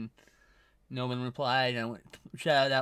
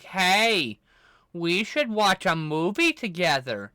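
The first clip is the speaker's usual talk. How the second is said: pedantic voice; 2 semitones higher, 5 dB louder, much slower than usual. Pretend. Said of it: "my pedantic voice".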